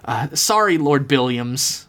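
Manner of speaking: meek and deferential; demure apology. Acted. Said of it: "Myrtle said demurely".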